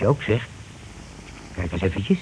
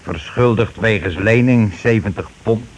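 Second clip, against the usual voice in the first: dictating a note; slower than usual. Acted. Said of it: "een briefje in die sok kunnen stoppen".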